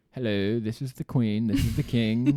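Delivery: lightly hammed-up royal proclamation; a touch of stiff royal voice; mock royal announcement. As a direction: announce yourself like a pompous king and queen.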